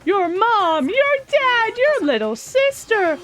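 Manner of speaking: lightly voiced menace with rising lilt; taunting game villain. Villain hints the family is in danger, teasingly taunting. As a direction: list them off to needle.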